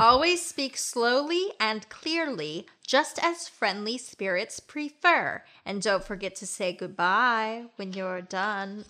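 slow spooky theme-ride narrator; Haunted Mansion host. Acted. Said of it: "a very good, like, Haunted Mansion goodbye".

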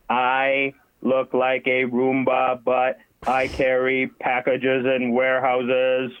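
slow deliberate robot voice. Shown as a demonstration. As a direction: speak slowly as a robot. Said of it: "I need to pretend to be a robot".

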